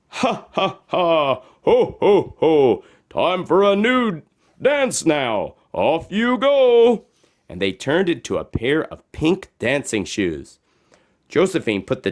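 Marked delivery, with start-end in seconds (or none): 0.1-7.0 higher, mock ha ha and ho ho; flippers laughing. Magic flippers laughing before turning into dancing shoes. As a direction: laugh it out merrily. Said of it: "Then the flippers laughed".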